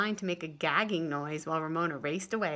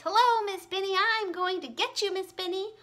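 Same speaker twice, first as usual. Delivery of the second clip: high, loud playful witch threat; high teasing witch shout; 11 semitones higher, 7 dB louder than usual. Acted. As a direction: jump out at the teacher shouting. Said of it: "shouted in her muffled voice".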